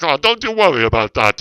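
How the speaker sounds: cheerful mock boss reassurance; imitating the made man. Retelling how the boss brushed off his worry. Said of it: "He was like".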